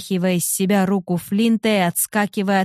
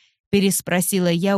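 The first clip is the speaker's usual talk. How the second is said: plain reading voice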